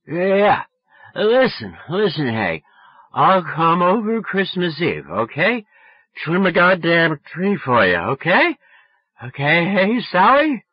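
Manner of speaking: put-on high, loud drunken pleading. A narrator's reading. Drunk boy offering Sally a visit, loudly insistent. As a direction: pester sloppily, calling down the line. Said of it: "Yes, you're drunk".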